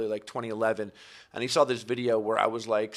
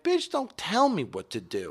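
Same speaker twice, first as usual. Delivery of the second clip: slow, much higher persona line; sauce boss voice; 8 semitones higher, slower than usual. Retold or imitated. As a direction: deliver it as the brash alter ego. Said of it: "The sauce boss can sometimes do it".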